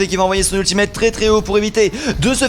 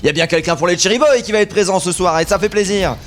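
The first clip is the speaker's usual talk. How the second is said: esports caster. Real, not acted. Live play-by-play casting.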